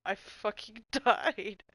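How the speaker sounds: drawn-out laugh through the words; cracking up as it comes out slowly; helpless slow laugh. Real, not acted. Recalling a hilarious moment.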